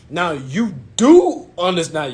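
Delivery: slow, deliberate stretch on "do"; imitating the salesman. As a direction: draw out "do understand" condescendingly. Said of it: "I'm saying exactly how he's saying it".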